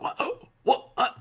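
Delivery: quick, high-pitched imitation of taken-aback people; imitating religious people. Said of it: "especially very religious people, like".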